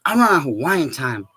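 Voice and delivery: slow, drawn-out mock Hawaiian accent; light Hawaiian pidgin lilt; imitating Hawaiian homie. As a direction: play an unhurried Hawaiian buddy. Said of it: "he's from Hawaii".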